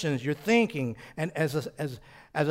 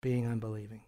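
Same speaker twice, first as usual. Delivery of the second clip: rebuke; 6 semitones lower, 8 dB quieter than usual. Acted. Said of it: "this is a rebuke now when he says".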